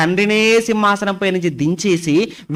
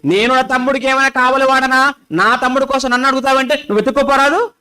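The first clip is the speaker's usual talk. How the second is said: a touch of insolent backtalk; arrogant retort; 3 semitones higher than usual. Retold or imitated. Cain sneering back at God, mildly arrogant. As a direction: toss it back with mild arrogance. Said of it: "పొగరెక్కి అన్నట్టుగా ఇక్కడ కయీను కూడా".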